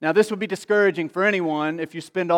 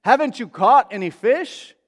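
raised, higher call across the water; calling out from afar; 4 semitones higher than usual. Retold or imitated. Man on the shore calling out to the fishermen, raised call. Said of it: "he called out to them from a distance".

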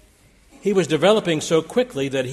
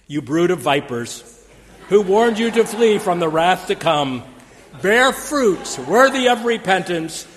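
mock-fiery prophet quoted on a greeting card; proclaiming prophet; 4 semitones higher, 7 dB louder than usual. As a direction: thunder it like a desert preacher. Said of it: "in the words of John the Baptist".

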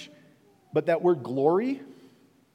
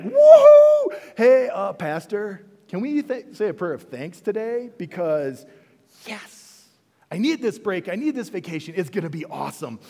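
whooping, much higher and louder joy; thrilled prize winner; 4 semitones higher, 10 dB louder than usual. Acted. Prize winner begging the pastor for prayer, whooping and excited. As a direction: shout it like you just won. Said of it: "You would be like".

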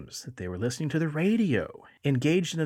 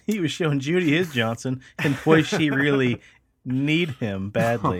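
laughing; 5 dB louder than usual. Real, not acted. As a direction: crack up while delivering the pun. Punning joke through laughter.

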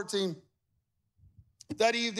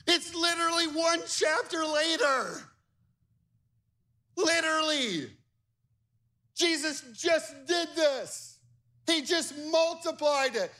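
incredulous exclaiming; 7 semitones higher than usual. Real, not acted. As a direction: throw up your hands and laugh it out. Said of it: "laughing incredulous outburst".

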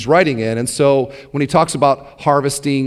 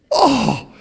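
excited oh; 9 semitones higher than usual. Retold or imitated. Excited people imitated.

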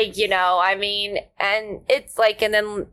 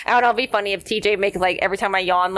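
ordinary delivery

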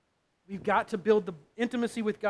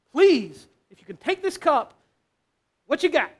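much louder and higher desperate plea; desperate cry; 6 semitones higher, 8 dB louder than usual. Acted. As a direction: cry out with everything left. Jesus's desperate final plea.

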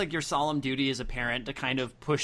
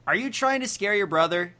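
demanding; 6 semitones higher than usual. Acted. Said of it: "Dad demanded".

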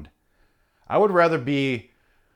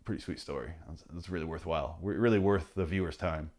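sarcastic boss; 6 semitones lower, 8 dB quieter than usual. Retold or imitated. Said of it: "Harvey's like".

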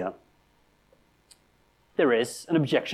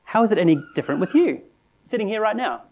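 accusing challenger; 3 semitones higher than usual. Retold or imitated. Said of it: "the accusation goes like this".

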